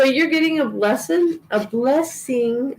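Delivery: a light Southern accent creeping in unintended; accidental Southern accent. Real, not acted. Tarot reader to her viewers, slipping into a light Southern accent. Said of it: "I'm not trying to talk with a Southern accent".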